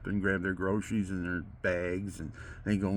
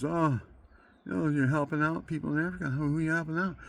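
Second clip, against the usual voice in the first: mocking the Monsignor; 6 semitones higher, faster than usual. Mimics the Monsignor questioning him.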